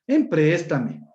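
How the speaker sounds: "Empréstame" drawn out slowly, every syllable clear; slow, deliberate wrong form "Empréstame"; slow demonstration. Shown as a demonstration. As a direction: spell out "Empréstame" slowly for the class. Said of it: "Así decimos".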